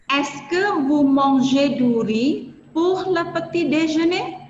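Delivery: slow, careful question rising at the end; slow French model question. Shown as a demonstration. Teacher models a French yes-no question, slow with a final rise. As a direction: read it slowly so students can follow. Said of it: "Contohnya ini".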